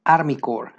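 "Corps" said as "cor"; silent final letters. Shown as a demonstration. Teacher restates army term, "Corps" ending on r. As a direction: drop the p and s from "Corps". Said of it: "no se pronuncian estas dos últimas letras".

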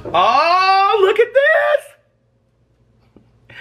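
sudden delighted cry, high and loud; excited shout. Real, not acted. Vlogger showing off her leftovers, a delighted cry. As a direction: burst out thrilled at the food. Excited about microwaved food.

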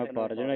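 "ਉਪਾਰਜਣਾ" as one unbroken word; joined pronunciation. Shown as a demonstration. Teacher shows students a joined reading, "ਉਪਾਰਜਣਾ" unbroken. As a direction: run "ਉਪਾਰਜਣਾ" together. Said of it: "ਇਕੱਠਾ ਹੀ ਪੜ੍ਹਨਾ".

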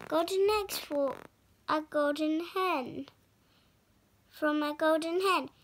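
quick delighted chant; mother cries out in joy; excited cry. Acted. Mum cries out over the golden eggs, quick and delighted. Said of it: "cries Jack's mum".

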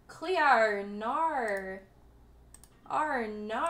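drawn-out Aussie "oh no"; put-on Australian twang on "no"; Aussie accent. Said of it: "You always like an Aussie accent".

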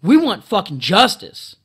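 building to a loud demand; mock rallying cry; imagined men declaring. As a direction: shout the last line for justice. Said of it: "men are gonna say".

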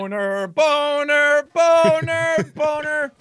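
expressive nonsense word. Pretend. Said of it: "the tone of voice in the inflection".

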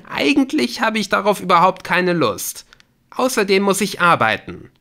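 high, loud, irritated brush-off; dismissive refusal. Acted. Woman refusing to meet caller, irritated brush-off. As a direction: turn him down pointedly. Claire turns down his request.

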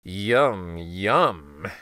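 greedy fox. Acted. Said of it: "went the fox".

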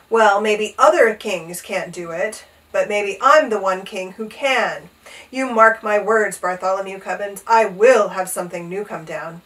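emphatic, defiant storybook king; royal rage. A narrator's reading. King defying his page boy's doubt, mild rage. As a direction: vow it with contained anger. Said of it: "His Majesty flew into a terrible rage".

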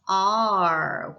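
R long and loud with a curled tongue; rolled-back R. Shown as a demonstration. Teacher sounding out A R, long loud R. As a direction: draw out R as an English r vowel. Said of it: "굴러간 다음에는".

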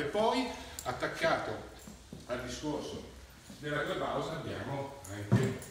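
breathless, panting between phrases; out of breath. Real, not acted. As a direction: speak while catching your breath. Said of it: "scusate il fiatone".

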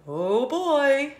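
put-on uneasy little oh boy; snake voice. Snake sees the pile of balls, mildly worried. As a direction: say it with mild dread. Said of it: "Snake is saying".

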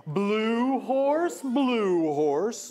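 slow, sing-song picture book reading; read-aloud to kids. Shown as a demonstration. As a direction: draw out each line for little listeners.

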